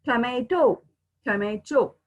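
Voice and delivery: "tomato" with a firm t in the last syllable; British-style "tomato", ending in a hard -to; British pronunciation. Shown as a demonstration. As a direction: say "tomato" the British way, t sounded before o. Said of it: "In British".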